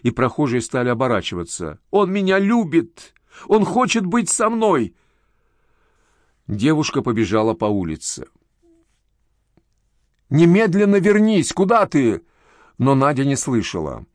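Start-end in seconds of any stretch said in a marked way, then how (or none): 1.9-4.9 high, slow, desperate crying out; hysterical cry. A narrator's reading. Hysterical daughter defending her lover. 10.3-12.2 high, loud call after someone running off; mother shouts after her daughter running down the street. A narrator's reading.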